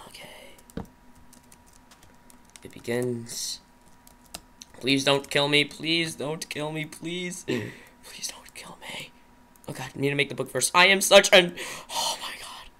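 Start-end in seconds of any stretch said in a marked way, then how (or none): 4.9-9.1 frightened plea fading to a whisper; terrified horror victim. Real, not acted. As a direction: beg for your life, quieter each time. Fearful pleading, fading to whisper.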